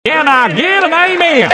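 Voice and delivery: high preacher call-out; hammed-up preacher asking amen.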